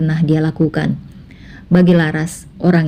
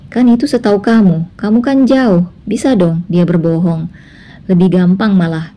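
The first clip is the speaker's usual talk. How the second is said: pressing her son to doubt his wife; insistent mother; 3 semitones higher, 3 dB louder than usual. Acted. The mother voiced on the phone. (ibu mendesak dengan nada tinggi)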